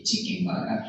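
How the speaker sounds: flat Japanese-accented "chicken burger"; Japanese English accent. Shown as a demonstration. Teacher showing what locals say, Japanese English accent. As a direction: say "chicken burger" quickly and evenly, Japanese style. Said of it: "English accent is really flat".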